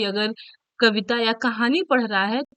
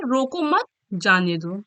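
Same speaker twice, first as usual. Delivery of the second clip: "रोको मत" as one unit, then "जाने दो"; pause after मत; 3 semitones lower than usual. Shown as a demonstration. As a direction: break the phrase after "मत". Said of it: "comma लगा, विराम चिन्ह लगा". ("मत" के बाद विराम)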